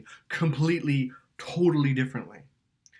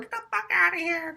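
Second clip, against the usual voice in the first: high mock shout; hammed-up retold fury; mock angry yell. Yelling at his girlfriend in retold fight, mock. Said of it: "I slammed it".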